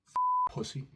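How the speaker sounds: very high squeaky insult; squeaky dad voice. Retold or imitated. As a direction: squeak it like a cartoon. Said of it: "he was like".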